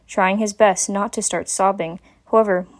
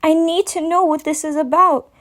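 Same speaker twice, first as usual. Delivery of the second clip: firm, higher insistent voice; a hint of a stern guardian; stern mare; 8 semitones higher than usual. A narrator's reading. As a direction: demand an answer kindly. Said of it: "in a more stern tone".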